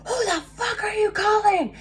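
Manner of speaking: very high, loud mock shriek; imitated screaming. Ex demanding to know who's being called, mock screaming. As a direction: screech it as a hammed-up impression. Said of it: "he's still screaming".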